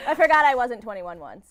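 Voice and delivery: laughing. Real, not acted. Laughing confession about age.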